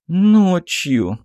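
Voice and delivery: put-on high, submissive girl's voice; meek repetition. A narrator's reading. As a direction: repeat it obediently, browbeaten. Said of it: "покорно повторила в конец затурканная Магесса". (покорный высокий девичий голос)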